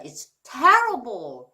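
terrible slowed, stressed on TER; stress on first syllable. Shown as a demonstration. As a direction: lean on the front of terrible, let the rest fall. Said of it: "강세가 앞에 있어요".

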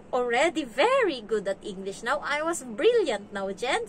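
imitating a kid's careful, syllable-by-syllable English; lightly voiced child, drawing out the key words; proud little kid, mildly imitated; child's clear English. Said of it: "Yung mag-pronounce ng English is napaka-clear. Yung parang syllable-syllable".

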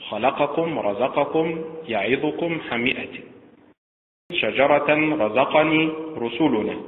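خلقكم with the stress on the second vowel. Shown as a demonstration. Teacher drilling stress on the second syllable. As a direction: lean on the second syllable of each word. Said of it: "بالنبر على الحركة الثانية".

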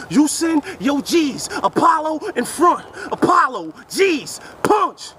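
key words "Apollo", "G's", "punch" hit one by one, slowing; breaking down the punchline. Shown as a demonstration. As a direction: unpack the punchline word by word. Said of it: "Let's look up for the punch".

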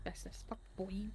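hushed whisper. Real, not acted. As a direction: breathe it out unvoiced. Hushed while hiding from killer.

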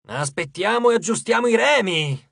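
mildly irritated burst; exasperated outburst. A narrator's reading. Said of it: "sbottò Hedge".

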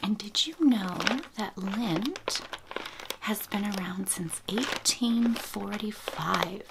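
breathy hush, as if close to the mic; ASMR whisper. Real, not acted. Whispering to viewers about baby gifts, ASMR whisper.

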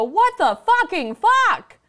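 hammed-up disbelief after being rear-ended; exasperated yell to sky. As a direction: howl it at the heavens. Yelling at the sky.

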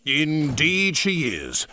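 slow, pleased, smiling voice. Acted. Sir Topham Hatt welcomes his visitor, slow and smiling. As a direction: say it with a pleased smile. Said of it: "smiled Sir Topham Hatt".

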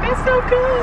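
high, put-on gushing voice; imagined admiring onlooker. Imagined onlookers seeing the camera, high mock admiration.

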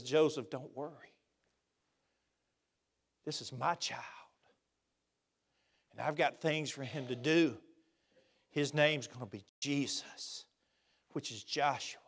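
God gently reassuring Joseph; gentle voice of God. Acted. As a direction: tell him softly not to worry.

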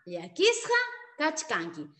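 slow, clear model sentence; teacher modelling the Quechua slowly; slow model phrase. Shown as a demonstration. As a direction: spell it out slowly for the pupil. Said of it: "¿Tú estás triste?".

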